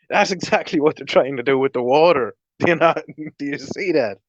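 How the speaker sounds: laughing through the words in disbelief; real laughter breaking into the rant. Real, not acted. Laughing at the water charges.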